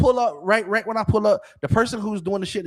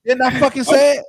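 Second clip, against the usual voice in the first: insistent; 6 semitones higher, 7 dB louder than usual. Real, not acted. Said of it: "insisting he said it".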